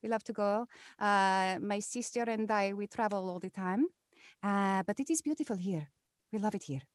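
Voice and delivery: lightly put-on character voice; improvised character voice. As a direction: improvise as a chatty traveller. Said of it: "all those characters and voices".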